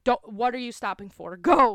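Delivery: loud urgent shout, laughing at the end; urgent yell. Retold or imitated. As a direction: yell at him to keep driving. Yelling at boyfriend to keep driving.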